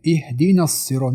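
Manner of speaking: short na joined into الصراط without lengthening; unstretched join. Shown as a demonstration. Teacher showing no stretch in اهدینا الصراط, joined short. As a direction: go straight from اهدینا into the doubled s of الصراط.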